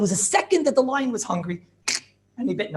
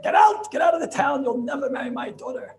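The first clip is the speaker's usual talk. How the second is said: angry shout; 5 semitones higher than usual. Acted. Father-in-law throws him out.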